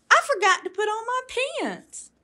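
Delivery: high, flustered frog voice; realising he's half dressed; high childish dismay; embarrassed little frog. A narrator's reading. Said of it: "cried Froggy".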